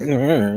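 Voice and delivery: mock strained growl, played for a laugh; short growly noise for a stiff movement; imitated awkward noise. Shown as a demonstration. Player showing how his stiff joints would block, mock growl. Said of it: "like that".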